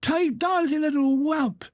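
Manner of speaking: high savage cry with the blow; vicious. Acted. Father strikes the boy with the stick, high vicious cry. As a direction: spit it out as you strike. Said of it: "striking at him viciously with the stick".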